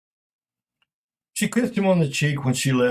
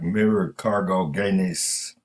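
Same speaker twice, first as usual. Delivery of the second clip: broken English; 3 semitones lower, much slower than usual. Retold or imitated. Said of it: "Only it came out in broken English".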